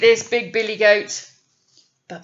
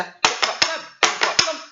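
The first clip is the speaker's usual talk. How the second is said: faster trip trap; 6 semitones higher than usual. A narrator's reading. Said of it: "And he did it faster".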